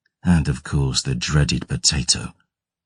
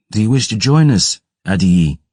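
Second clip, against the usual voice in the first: militiaman's invitation; 5 semitones higher, 3 dB louder than usual. Acted. Young militiaman invites the narrator.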